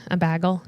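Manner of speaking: "bagel" said BAG-ul, with a short a; mimicking Midwestern pronunciation. Podcaster echoing co-host's bag, Midwestern "bagel" as BAG-ul. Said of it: "you're saying it so Midwestern".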